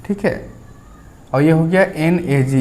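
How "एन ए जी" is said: एन ए जी said as three separate letters, not the word नाग; spelled letter by letter. Shown as a demonstration. Teacher to students spelling the letters, not reading नाग. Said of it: "इसे नाग नहीं पढ़ना है".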